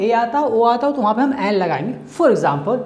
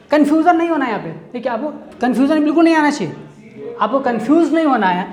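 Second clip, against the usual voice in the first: higher, fast and urgent; emphatic warning; 4 semitones higher, faster than usual. Real, not acted. Teacher urging students not to get confused, fast and emphatic. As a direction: press the warning home quickly.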